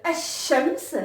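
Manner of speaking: الشمس with a held, doubled shin. Shown as a demonstration. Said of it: "On appuie sur le, la lettre shin".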